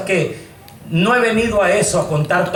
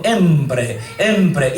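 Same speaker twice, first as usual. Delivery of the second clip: fading echo; 4 semitones lower than usual. Retold or imitated. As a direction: echo dying away, low then fading. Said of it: "en el eco se llevó la voz".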